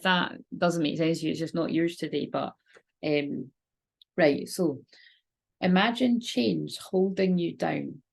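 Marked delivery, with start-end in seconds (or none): 5.6-8.0 slow, calm meditation lead-in; guided meditation voice. Shown as a demonstration. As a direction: guide them slowly into the image. Starts guided meditation, then stops.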